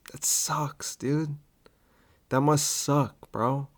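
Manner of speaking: soft, near-whispered fake pity; mock sympathy. Comic to upset fans, mock sympathy.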